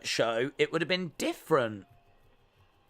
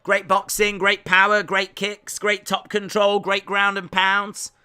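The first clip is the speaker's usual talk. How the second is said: punchy, louder fight-announcer delivery; announcer's rundown; 3 semitones higher, 5 dB louder than usual. Acted. Streamer hyping a fighter's strengths, announcer style. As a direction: list strengths like a ringside announcer.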